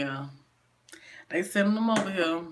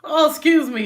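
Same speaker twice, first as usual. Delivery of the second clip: startled; 10 semitones higher, 11 dB louder than usual. Real, not acted. Tissue stuck in nose, sudden outburst.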